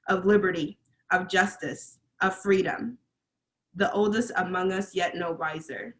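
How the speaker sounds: insistent spoken-word delivery; poetry recitation. Acted. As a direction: drive each repeated line home like a slam poet. Recites own poem to audience.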